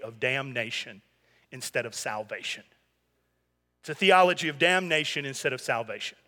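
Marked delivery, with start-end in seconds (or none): 0.0-2.6 hushed quote, pitch dropped low; quoted theologian, voice sunk low; quiet, low aside. Retold or imitated. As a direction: murmur it, low and soft. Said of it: "he said".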